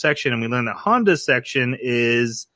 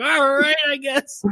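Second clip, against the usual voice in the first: reluctant; 12 semitones higher, slower than usual. Retold or imitated. Clerk gives in to eager fans.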